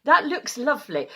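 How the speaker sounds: Mrs Doubtfire impression. Host greeting viewers as a Mrs Doubtfire granny, high and hammed. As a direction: ham up a sweet Scottish granny greeting. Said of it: "sounding like Robin Williams and Missus Doubtfire".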